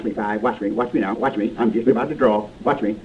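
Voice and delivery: quiet, menacing low taunting. Acted. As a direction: dare him softly to draw. Taunting gunman before a draw.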